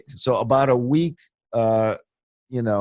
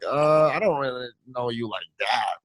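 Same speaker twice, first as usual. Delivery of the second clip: dismissive. Retold or imitated. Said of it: "was that the feeling".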